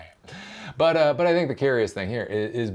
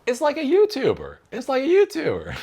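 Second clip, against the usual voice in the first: high, louder mocking voice; 5 dB louder than usual. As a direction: squeak the punchline up high in mockery.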